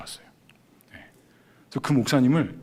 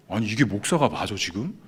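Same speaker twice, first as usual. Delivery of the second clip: retold indignant grumbling; 3 semitones higher, 4 dB louder than usual. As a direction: replay an inner rant at the pastor, building in pitch. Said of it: "그 목사님 엄청 욕했어요". (속으로 욕하듯 분한 말투로)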